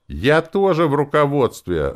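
high, loud indignant protest; shrill exclaiming. A narrator's reading. Lenora arguing with the druid, exclaiming shrilly. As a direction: insist on your right at full voice. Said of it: "восклицала она".

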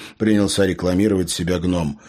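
plain reading voice

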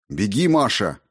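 plain reading voice

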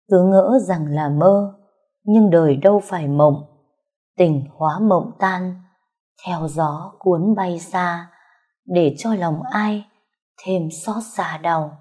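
slow mournful recital fading to a hush; poetic lament. A narrator's reading. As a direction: recite it like a sad verse, letting it die away.

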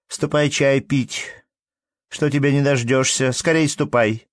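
high peevish call across the yard; shrill calling. Acted. Wife calling the manager to tea, peevish shout. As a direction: call him in like a nagging wife. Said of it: "крикнула женщина пескливо".

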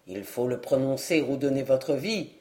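a small man checking a rival, low and steady; the dwarf warning. Acted. Dwarf to the eager knight, low calm warning.

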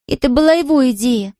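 put-on high young girl repeating her apology; a child begging forgiveness over and over; girl's voice, guilty and pleading. A narrator's reading. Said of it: "твердила Мэри".

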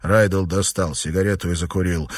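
ordinary delivery, nothing marked

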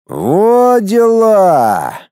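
high, long drawn-out exclamation; dumbfounded, slow and high; flabbergasted. A narrator's reading. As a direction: stretch it out in stunned amazement. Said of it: "ошарашенно протянул Цаплин".

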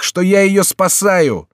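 very high, loud, drawn-out cry; slow, impassioned shout. A narrator's reading. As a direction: shout it out desperately. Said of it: "кричал Генрих".

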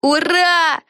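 high cheering shout; Peggy whoops in triumph; shouting hooray. A narrator's reading. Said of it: "завопила Пегги". (радостный крик «ура»)

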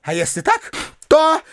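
high-pitched indignant harangue; furious tirade. A narrator's reading. Widow raging at the uncle, high indignant harangue.

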